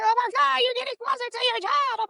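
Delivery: very high imitated squeal of excitement; excited screaming. Jasmine reacting to the reference-check screenshot, excited screaming. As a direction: squeal it like a thrilled friend. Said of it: "Y'all do too much screaming, you and Jasmine".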